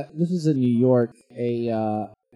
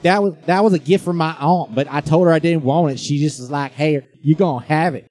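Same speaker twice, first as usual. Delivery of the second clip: mock redneck woman; 3 semitones higher, 7 dB louder than usual. Voicing the woman, continued.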